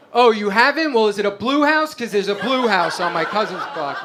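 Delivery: a hint of the helpful Guido cousin; mock helpful Guido. Comic replying to the hurricane victim, mock eager helpfulness.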